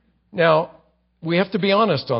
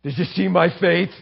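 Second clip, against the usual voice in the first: hammed-up show-off calling for attention; a boaster showing off his faith, mock proud; mock boasting; 3 semitones higher, 3 dB louder than usual. Preacher mocking a showy believer, hammed-up bragging. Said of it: "you don't say".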